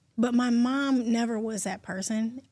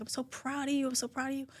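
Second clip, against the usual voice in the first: softly imitating dad; 3 semitones higher, 7 dB quieter, faster than usual. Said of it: "He's like".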